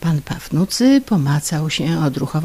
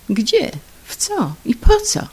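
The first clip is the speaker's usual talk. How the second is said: bewildered questions; 9 semitones higher than usual. Acted. Confused husband.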